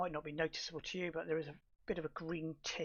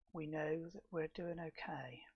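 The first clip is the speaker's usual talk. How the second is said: whispered aside; 3 dB quieter than usual. Real, not acted. Muttered aside while placing points.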